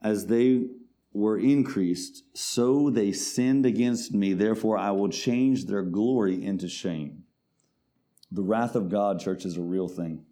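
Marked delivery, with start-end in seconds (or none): 0.0-7.2 loud, proclaiming verse; forceful scripture reading. Acted. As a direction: declare the judgement from the pulpit. Reads scripture.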